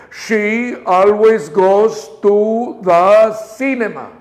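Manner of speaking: slow, with "cinema" drawn out at the end; last word stretched up. Shown as a demonstration. Teacher shows the class how to stretch "cinema". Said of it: "La última palabra la estiramos hacia arriba".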